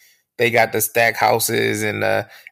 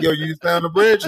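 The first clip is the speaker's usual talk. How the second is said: higher mock New York accent; New York impression; 4 semitones higher than usual. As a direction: imitate an extra New Yorker. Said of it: "y'all come across campus like".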